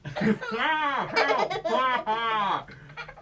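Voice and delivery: loud burst of laughter; cracking up at his own silly story; real laugh. Real, not acted.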